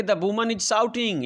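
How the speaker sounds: very slow, each word spaced out for the class; slow dictation. Shown as a demonstration. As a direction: read it out word by word as if dictating to pupils. Teacher dictating example sentence. (बहुत धीरे, शब्द-शब्द बोलकर लिखवाना)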